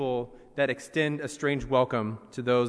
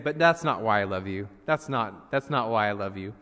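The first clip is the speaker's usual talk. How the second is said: lowered, gentle father voice reassuring his little one; a daddy squirrel telling his child he is loved, in a lightly lowered kind voice; 6 semitones lower than usual. Retold or imitated. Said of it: "the father's very kind".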